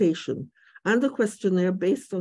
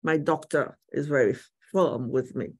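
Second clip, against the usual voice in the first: muffled behind a face mask; speaking through a face mask; 3 semitones lower than usual. Real, not acted. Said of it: "Do forgive my mask".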